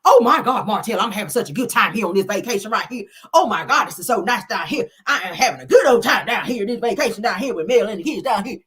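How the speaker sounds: loud, high country gushing; Marlene impression. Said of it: "that's how Marlene talk with her country ass".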